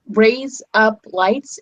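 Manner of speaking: "Raise up lights" drawn out slowly in a broad English accent; slow English-accent party trick on "Raise up lights". Shown as a demonstration. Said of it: "it sounds like razor blades".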